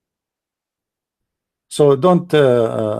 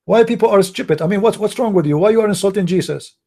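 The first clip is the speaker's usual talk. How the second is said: higher-pitched, indignant questioning; exasperated scolding; 5 semitones higher than usual. Real, not acted. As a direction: demand an explanation, pitch raised. Scolding people for insulting Jesus.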